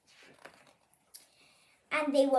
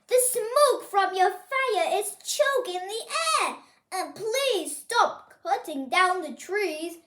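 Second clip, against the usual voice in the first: crowd shouting; 3 semitones higher, 4 dB louder than usual. Acted. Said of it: "everyone in the crowd began to shout".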